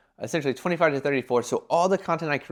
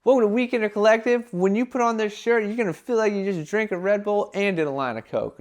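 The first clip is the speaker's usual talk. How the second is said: hyped brand voice; 8 semitones higher than usual. Retold or imitated. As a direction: sell it like a high-energy promo. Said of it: "It's gonna be more like".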